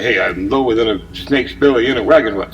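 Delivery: lightly put-on Bronx accent. Shown as a demonstration. Illustrating mixed-up metaphors for listeners, in a light mock Bronx accent. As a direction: give the folksy saying a touch of Bronx. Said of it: "a Bronx person doing a Bronx accent".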